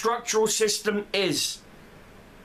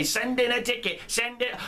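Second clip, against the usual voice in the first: higher, dismissive mimicry of "Send in a ticket"; mocking the devs' reply; 4 semitones higher than usual. Mimicking the devs' brush-off to players, mocking and higher. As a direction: parrot the stock answer with scorn. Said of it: "that's the first thing you idiots are gonna say".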